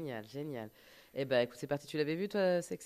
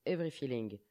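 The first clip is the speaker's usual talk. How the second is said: English title in a French accent; 3 semitones lower, 5 dB quieter than usual. Real, not acted. Host announces the song title, French accent. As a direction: softly read with French vowels, the song title. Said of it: "Bien avec l'accent français, ça".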